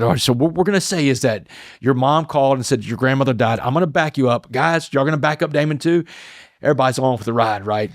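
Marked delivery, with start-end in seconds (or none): 0.0-6.0 raised, conspiratorial chaplain briefing the guys; lightly voiced chaplain laying out the plan. Inmate retells the chaplain rallying the guys behind him, raised voice. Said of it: "He said".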